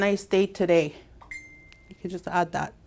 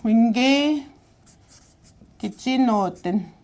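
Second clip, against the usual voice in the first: slow demo; 2 semitones higher, slower than usual. Shown as a demonstration. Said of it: "the same one that I've been teaching".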